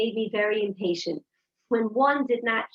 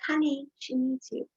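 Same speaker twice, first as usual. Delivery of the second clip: softer, tender reminder; gentle; 3 semitones higher, 4 dB quieter than usual. Retold or imitated. Mother gently telling her child the sister needs her, softer. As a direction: ease the child toward her sister softly. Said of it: "I said to my kids".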